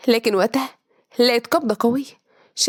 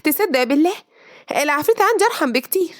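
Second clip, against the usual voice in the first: annoyed; 3 semitones higher than usual. Acted. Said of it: "بصت له بضيق".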